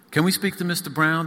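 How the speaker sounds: put-on girl asking a maid at the door, high and timid. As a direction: ask shyly like a little girl at a star's door. Child asks at the door.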